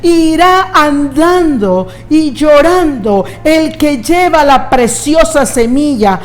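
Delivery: scripture ringing out, rising on volverá; preaching at full force. Acted. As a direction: proclaim it with fervour. Scripture proclaimed.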